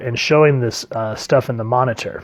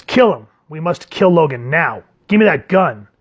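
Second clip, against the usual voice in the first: frantic shout; 3 semitones higher than usual. Acted. Professor freaks out.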